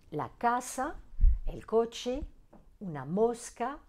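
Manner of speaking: casa, coche, mosca stressed on CA, CO, MOS; careful examples, "casa", "coche", "mosca" stressed early; stress on next-to-last syllable. Shown as a demonstration. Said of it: "l'accent tonique sur l'avant-dernière syllabe".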